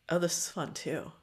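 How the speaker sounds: normal talking voice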